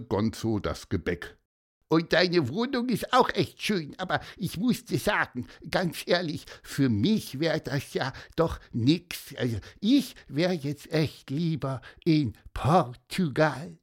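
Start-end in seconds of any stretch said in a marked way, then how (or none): 1.9-13.8 squeaky cartoon voice. Gonzo the bird speaks.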